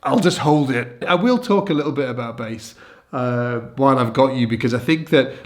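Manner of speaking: stuffy, congested voice; blocked nose. Real, not acted. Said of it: "I can't breathe through my nose".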